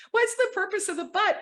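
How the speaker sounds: very high-pitched mock question; imitated baffled husband.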